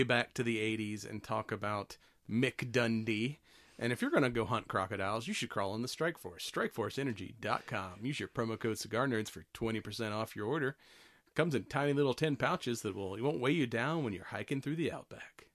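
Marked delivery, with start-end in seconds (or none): 3.8-15.5 lightly voiced ad announcer. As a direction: read it like a radio ad. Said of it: "announcer voice there?".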